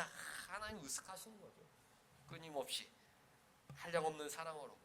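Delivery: ordinary delivery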